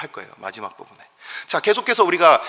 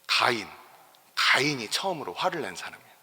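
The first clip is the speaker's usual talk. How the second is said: ordinary talk, nothing marked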